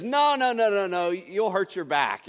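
high, loud mock-alarmed wife protesting. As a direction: squeal the refusal like a worried wife. Wife voiced protesting in story.

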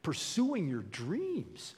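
lightly voiced sarcastic serpent, stretching the last words. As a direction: play the tempter selling a grievance. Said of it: "can you hear the sarcasm in his voice".

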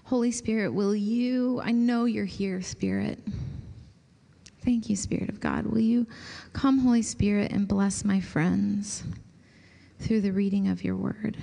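softly spoken invitation to the Spirit; quiet prayer. Acted. Pastor praying over friends before the reading, hushed prayer. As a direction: pray gently over your friends. Prays aloud for the group.

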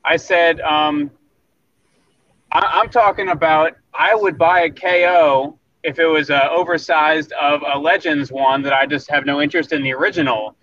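breaking up on a phone line; bad connection. Real, not acted. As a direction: cell phone audio, cutting out. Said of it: "Sorry if I'm breaking up".

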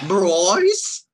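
loud British call, rising; drawn-out, questioning mock-British shout; mock British accent. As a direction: call out the name in exaggerated British. Calls Bryce in British accent.

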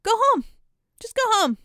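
high, loud imitation of a commander; mock stern order. Washington sending Hamilton home, imitated loud order. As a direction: bark the dismissal, hammed-up.

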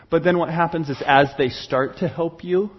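ordinary delivery

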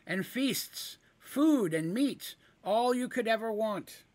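high, slow, tempting offer; eager kender voice. Acted. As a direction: dangle the food like bait.

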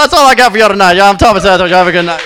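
usual speaking voice

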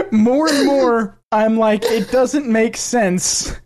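first stab at imitating a thick Southern drawl, stretched out; Southern accent imitation. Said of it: "speaks with a thick Southern accent".

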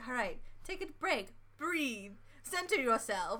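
soft, soothing mock meditation voice; hushed, calming spoof of guided meditation; mock meditation guide. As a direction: gently parody a meditation podcast host. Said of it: "we're now meditation podcasters".

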